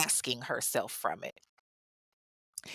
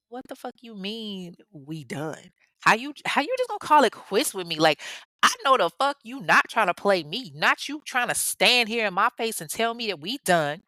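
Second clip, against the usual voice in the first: indignant disbelief; 2 semitones higher than usual. Retold or imitated. Dumped girlfriend refusing to accept it, indignant disbelief. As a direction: act out her offended comeback. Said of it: "didn't take that too well".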